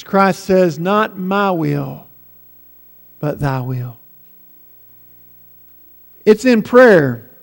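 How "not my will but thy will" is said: low, slow and soft; hushed surrender. Acted. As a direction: let it sink into a quiet, solemn submission. Christ's surrender as heaven rests.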